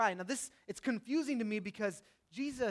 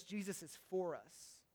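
soft emphatic statement; 3 semitones lower, 12 dB quieter, slower than usual. Real, not acted. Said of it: "You can write that down because it's important".

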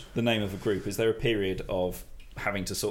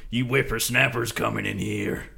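put-on old prospector. S2 plays grizzled old web developer.

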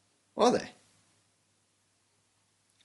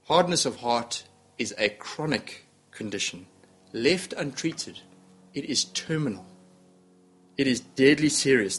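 grave doctor's diagnosis; 3 semitones lower than usual. Retold or imitated. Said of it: "the physician of Scripture replies".

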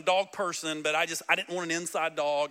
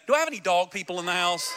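rally the crowd; 2 semitones lower, faster than usual. Real, not acted. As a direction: pump the congregation up. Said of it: "Let's try it again".

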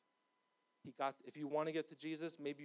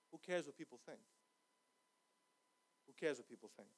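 hushed pleading; 2 semitones lower, 7 dB quieter than usual. Acted. Pastor quietly urging the congregation, soft and earnest. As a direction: draw them in close with a hush.

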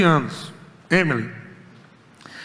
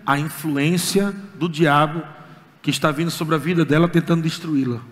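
voice of the Lord; 5 semitones lower than usual. Retold or imitated. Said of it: "o Senhor falou".

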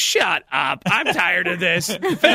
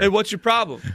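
mock Norwegian accent; faster than usual. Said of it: "Norwegian accent".

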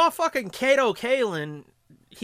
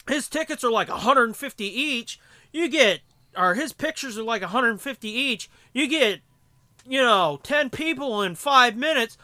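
imitating eavesdropper; 6 semitones higher, 6 dB louder than usual. Eavesdropper butting in.

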